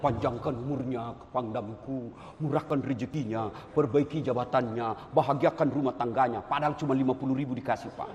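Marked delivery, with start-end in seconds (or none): 0.0-6.4 acted grateful prayer, pitched well down; praying. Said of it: "Dia akan berdoa keluar macam-macam doanya".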